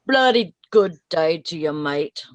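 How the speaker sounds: a hint of a British accent, laughing at the end; mock English greeting. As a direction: toss off a bloody good day in faux British. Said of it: "He's English".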